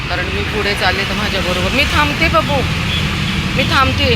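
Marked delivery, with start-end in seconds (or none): 1.8-4.1 calling a pet. Real, not acted. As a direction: shoo the dog off the road, urging. Telling dog to get off road.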